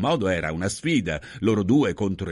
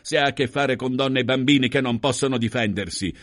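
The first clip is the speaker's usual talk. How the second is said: higher, loud indignant accusation; scornful; 5 semitones higher, 4 dB louder than usual. Acted. Husband accuses host of bullying, scornful. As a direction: denounce him with disdain. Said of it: "sbuffò con disprezzo".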